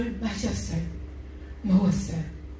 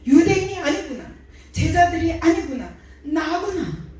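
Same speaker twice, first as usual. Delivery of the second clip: higher and louder, rising conviction; fervent realization; 5 semitones higher, 3 dB louder than usual. Real, not acted. Preacher tells the congregation she killed him, fervent build. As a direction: preach the revelation with mounting fire.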